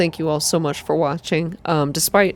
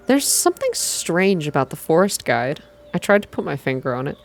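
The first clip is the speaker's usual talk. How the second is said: calm story reading. A narrator's reading. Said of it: "calm, slow".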